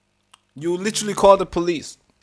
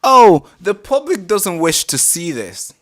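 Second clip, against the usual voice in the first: slow, lightly mocking echo; sarcastic mimicry; 3 semitones higher, 6 dB louder, slower than usual. Reactor parroting the police officer's objection, sarcastic mimicry. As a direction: draw it out with loud mock concern.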